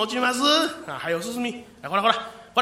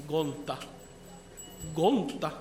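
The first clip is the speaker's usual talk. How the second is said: eerie low call; 6 semitones lower, 8 dB quieter than usual. Acted. Mysterious voice in the dark.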